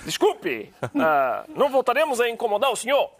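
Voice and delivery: put-on high, playful Brazilian Portuguese accent. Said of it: "estás a ficar com um bom sotaque brasileiro".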